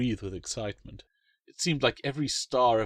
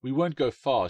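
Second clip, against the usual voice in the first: promising daughter; 4 semitones higher, 6 dB louder than usual. Acted. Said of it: "she promised".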